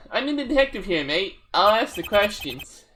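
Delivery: a second take of the Aussie detective; lightly voiced Australian detective; Australian-ish accent, redone. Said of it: "so I did the accent".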